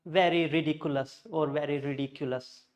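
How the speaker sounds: ridiculous as ree-dee-kyu-lus; smooth over "dic" in ridiculous; ridiculous evenly said, "ri-di culous"; wrong RIDICULOUS. Shown as a demonstration.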